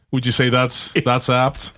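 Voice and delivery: slow, lecturing professor tone; university professor voice. Acted. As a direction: ask it like a stuffy lecturer. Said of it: "is that your university professor voice?".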